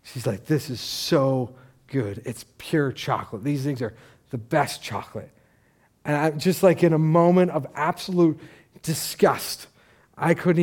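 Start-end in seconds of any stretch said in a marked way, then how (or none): 0.5-5.3 blissful savouring. Retold or imitated. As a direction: play her relishing it in earnest. Woman raves about the treat.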